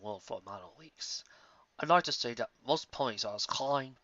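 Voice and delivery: a solemn, hushed compliment; Starswell. Acted. Starswell voiced in story.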